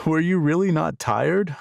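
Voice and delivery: breathless wonder after dancing; amazed question. A narrator's reading. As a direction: marvel that she kept going.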